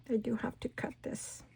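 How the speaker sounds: whispered note to self. Real, not acted. Crafter deciding to cut, whispered. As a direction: say it under her breath, unvoiced. Aside while cutting.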